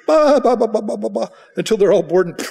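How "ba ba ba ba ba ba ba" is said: loud, high sheep bleat mocking church hoppers; hammed-up sheep voice. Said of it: "and then they go".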